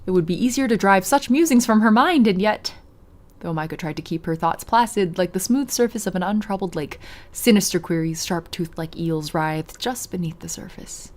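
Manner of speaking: measured read-aloud storytelling; story narration. A narrator's reading. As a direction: narrate the scene evenly.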